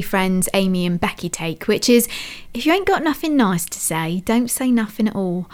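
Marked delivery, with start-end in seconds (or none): 2.5-5.5 light mock Cockney, dropped aitches and all; Cockney accent. Host quoting Thumper's advice, in a playful Cockney accent. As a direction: slip into a casual Cockney lilt. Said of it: "why that was in a Cockney accent".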